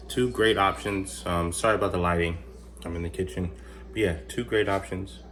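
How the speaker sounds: talking while chewing; mouth full. Real, not acted. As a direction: speak around a bite of food. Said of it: "Sorry for chewing my mouth full".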